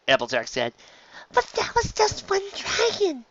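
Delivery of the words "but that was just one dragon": Fluttershy timid. Acted. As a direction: barely dare to speak up. Fluttershy voiced.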